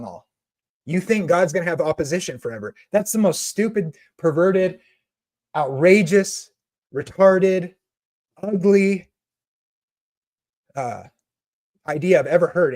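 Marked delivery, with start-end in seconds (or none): 2.9-12.7 each insult hit harder and higher; passionate rant. Real, not acted. Preacher tearing into a doctrine he despises, heated and loud. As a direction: pile the insults on, rising in outrage. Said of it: "I'm really passionate about it".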